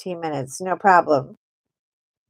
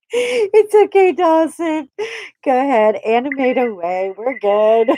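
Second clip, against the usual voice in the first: playful teasing; 4 semitones higher, 3 dB louder than usual. Real, not acted. Streamer teasing Dawson for animated emotes, playful. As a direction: tease the chatter kindly.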